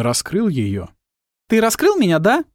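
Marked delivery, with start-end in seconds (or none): 1.5-2.4 put-on much higher, louder girlish greeting; Tilly voice. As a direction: chirp at him, pitched up.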